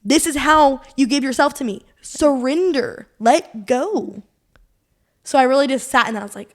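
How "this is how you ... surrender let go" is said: a gentle shake from her own mind; inner voice. Retold or imitated. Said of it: "my brain realized".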